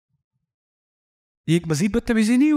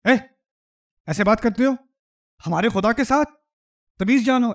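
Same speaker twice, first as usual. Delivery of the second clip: mock indignant courtier; 4 semitones higher than usual. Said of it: "تو باقیوں کو کیا ہونا چاہیے؟".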